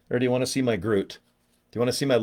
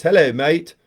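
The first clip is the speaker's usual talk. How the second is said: lightly mocked English accent, a bit louder; 3 semitones higher, 4 dB louder, slower than usual. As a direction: put on a rough English accent. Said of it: "He just talks like this".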